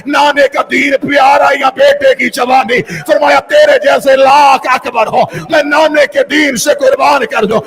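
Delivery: impassioned majlis recitation, rising to shouts; mournful preacher's wail; preaching at full force. Acted. Majlis narration of Karbala, preaching.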